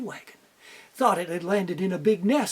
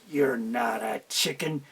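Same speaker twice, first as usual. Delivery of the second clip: big eagle; 10 semitones lower, 6 dB quieter, slower than usual. Acted. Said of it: "the big eagle said".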